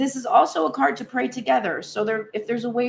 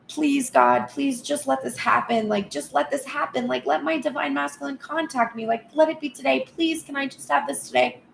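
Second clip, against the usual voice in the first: higher, pleading plea to God; begging prayer; 4 semitones higher than usual. Acted. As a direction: beg God like an impatient supplicant. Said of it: "praying or in a way that is begging".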